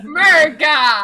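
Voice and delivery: loud, drawn-out American holler; hammed-up slow, loud cheer; mock patriotic shout. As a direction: belt it out like a caricature American. Joking shout about American accents.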